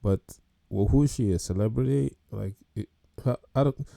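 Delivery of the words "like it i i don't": stumbling, repeating words; stuttering. Real, not acted. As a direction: trip over the words. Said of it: "I'm even just stuttering".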